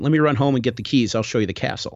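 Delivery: a hint of an Irish accent on the caretaker's words; light Irish accent. Caretaker offering to fetch the castle keys, light Irish accent. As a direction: mildly slip into an Irish accent. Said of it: "but in an Irish accent".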